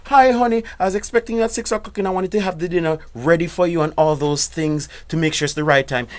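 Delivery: high, sugary phone greeting to a husband; wife calling husband about dinner, sweetly high. Acted. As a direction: play the eager wife calling. Wife phoning husband, role-play.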